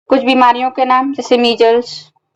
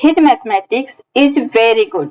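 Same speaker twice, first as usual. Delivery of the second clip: slow example reading; much slower than usual. Shown as a demonstration. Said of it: "दूसरा example है".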